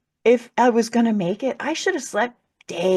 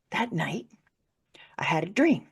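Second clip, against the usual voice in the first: hushed storytelling whisper; 5 dB quieter than usual. Real, not acted. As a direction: lean in and whisper. Storytelling hush.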